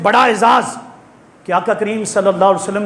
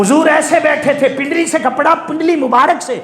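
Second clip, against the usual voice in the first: raised-pitch sermon delivery; higher, declaimed storytelling from the pulpit; preaching; 7 semitones higher than usual. Real, not acted. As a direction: preach it with lifted voice to the congregation.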